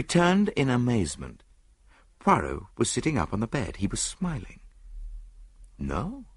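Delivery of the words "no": soft, lifted little denial; mild, hushed refusal; gentle. A narrator's reading. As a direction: correct them softly and kindly. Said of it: "he said gently".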